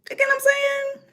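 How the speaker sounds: a quick whispered question to the viewers; whispered aside. Real, not acted. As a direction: lean in and whisper it, conspiratorial.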